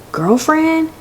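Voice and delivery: high-pitched incredulous question; mock surprise. Trucker hearing of a girlfriend, mock surprise. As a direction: echo the word, pitched right up. Trucker taken aback by the word.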